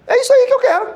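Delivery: high, loud and delighted; excited exclamation. Retold or imitated. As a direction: blurt it out, thrilled. Retold excited remark at funeral. (exclamação animada, aguda e forte)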